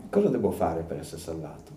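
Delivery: the question rising in an onlooker's heart, softly; inward question. Shown as a demonstration. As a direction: ask it quietly to yourself. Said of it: "la domanda che deve venire nel cuore".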